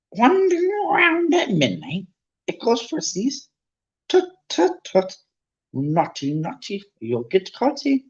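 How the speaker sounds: high, mocking sing-song poltergeist voice; teasing poltergeist. Peeves teasing the students out at midnight, high and mocking. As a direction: taunt them from up high, gleefully.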